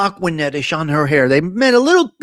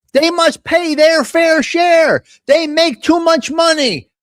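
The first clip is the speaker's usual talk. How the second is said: mocking a ranting senator, higher pitched; Bernie Sanders impression; 8 semitones higher, slower than usual. Host mocking Bernie at his Tax the Rich rally, high mock rant. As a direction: ham up an old politician yelling at a rally. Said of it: "Screaming and yelling".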